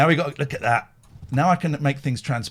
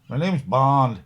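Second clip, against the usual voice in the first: Bond impression; 3 dB louder, much slower than usual. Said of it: "That's not a bad impression".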